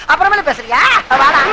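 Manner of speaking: normal talking voice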